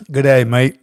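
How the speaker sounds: Aussie greeting. Shown as a demonstration. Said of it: "she said I said it well".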